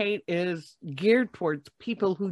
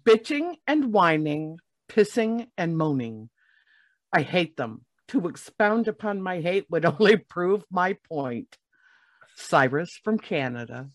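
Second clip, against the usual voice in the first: dramatic second reading. Shown as a demonstration. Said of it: "it deserves a second read".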